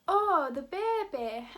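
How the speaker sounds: put-on loud, slow Welsh accent catchphrase; hammed-up Welsh accent impression; Nessa's accent. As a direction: stretch it out in a playful mock Welsh accent. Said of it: "my best shot at Nessa's accent".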